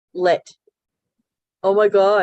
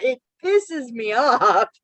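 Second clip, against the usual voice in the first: laughing annoyance; slower than usual. Real, not acted. Laughing at her own irritation.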